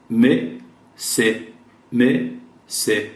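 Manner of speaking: "Me" and "Se" said syllable by syllable; "Me" and "Se" drilled slowly; Portuguese "Me" and "Se" syllables. Shown as a demonstration. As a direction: spell out "Me", then "Se".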